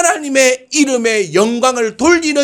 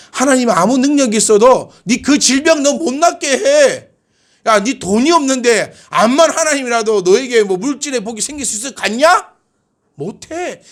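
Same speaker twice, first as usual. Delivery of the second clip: raised-pitch mocking challenge; taunting Assyrian king; 4 semitones higher than usual. Enemy king belittling the people's God, taunting. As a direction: taunt them, lightly playing the enemy. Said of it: "너희가 믿고 있는 하나님을 욕하는 거예요".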